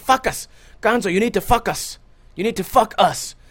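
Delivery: put-on loud, strong Puerto Rican accent. Retelling what his friend's dad always told his friend: strong Puerto Rican accent. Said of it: "he has a strong Puerto Rican accent".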